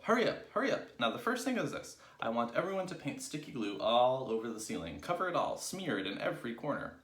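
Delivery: high, loud rallying orders; urgent cry. A narrator's reading. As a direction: drive the team on urgently. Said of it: "cried Mugglewump".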